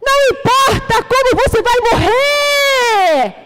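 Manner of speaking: fervent preacher's cry; preaching shout. Real, not acted. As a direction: shout it down to the back row.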